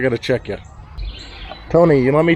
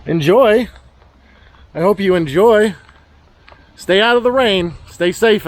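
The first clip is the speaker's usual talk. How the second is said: higher, friendly voice for the animals; high pet-talk voice; 5 semitones higher than usual. Real, not acted. Talking to animals.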